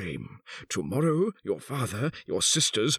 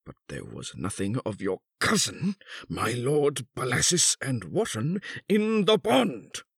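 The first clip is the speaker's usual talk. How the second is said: high, deliberate recital swelling to an outburst; bitter accusation; 9 semitones higher than usual. A narrator's reading. Husband recounts the bought marriage, bitterly accusing. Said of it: "The old man continued".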